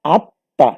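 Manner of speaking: আত্মা said as আত্তাঁ, doubled t, nasal a, no m; আত্মা pronounced with doubled t and a nasal vowel; spoken pronunciation. Shown as a demonstration. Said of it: "আমরা উচ্চারণে তখন লিখব".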